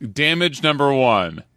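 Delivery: dry sarcastic guess, slow; deadpan a joke answer. Pretend. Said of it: "Let me sarcastically guess".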